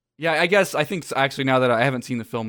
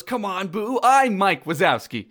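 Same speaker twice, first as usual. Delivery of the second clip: higher-pitched pleading correction; Mike; 6 semitones higher than usual. Acted. Monster corrects a toddler's mistake, higher protesting voice. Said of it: "And Mike goes".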